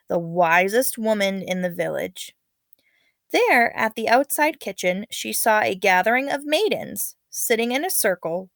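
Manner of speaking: lively read-aloud storytelling voice; story narration. Acted. Teacher reading a legend to her class, dramatic storytelling.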